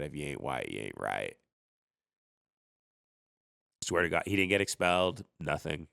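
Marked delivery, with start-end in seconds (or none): 0.0-1.4 put-on drunk racist quote. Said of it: "he cocked it, and he said".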